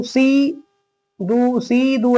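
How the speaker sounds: "सी, दू" with "सी" wrongly stretched long; wrongly lengthened vowel. Shown as a demonstration. Teacher showing how not to read it, wrongly lengthened vowel. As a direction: drag out "सी" as well as "दू". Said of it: "ऐसे नहीं पढ़ेंगे".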